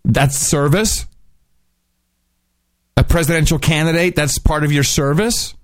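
incredulous mockery. Real, not acted. Mocking the president's quote.

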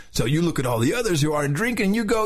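slightly high surfer-dude delivery. Shown as a demonstration. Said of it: "the whole thing in a surfer's voice".

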